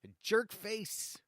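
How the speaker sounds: heated rant. Real, not acted. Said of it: "I got a little heated".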